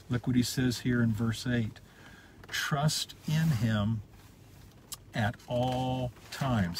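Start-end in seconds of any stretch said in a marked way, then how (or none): 2.5-6.8 each word laid down very slowly; slow, weighty reading. Shown as a demonstration. Preacher slowly reads the verse to his congregation, drawn out. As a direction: read it out slowly, letting "Trust in him" land. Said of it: "How many times?".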